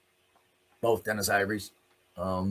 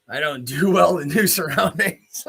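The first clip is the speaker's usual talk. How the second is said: nervous laugh; 6 dB louder than usual. Real, not acted. Laughs at his own nerves.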